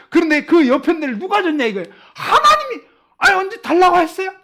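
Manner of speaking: high, loud mock protest; indignant blaming. Preacher voicing Adam blaming God, indignant protest. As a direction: push the blame back, pitch leaping up. Acting Adam's blame of God.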